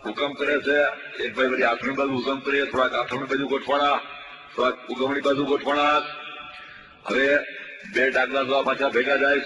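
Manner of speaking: lively mock sports commentary, rising as the game heats up; mock play-by-play. Comedian mocking a village match, commentary voice. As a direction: call the match like a radio commentator, tongue in cheek.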